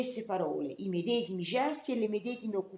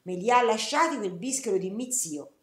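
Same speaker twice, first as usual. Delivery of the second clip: retold snappy half-shout, louder at the start; 4 dB louder than usual. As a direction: throw it at him, almost yelling. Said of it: "quasi mi gridò".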